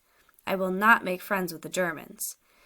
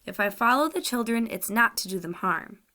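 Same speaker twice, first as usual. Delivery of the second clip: higher and louder protest; earnest denial; 3 semitones higher, 4 dB louder than usual. Acted. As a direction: deny it hard, pleading to be believed. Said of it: "He spoke convincingly".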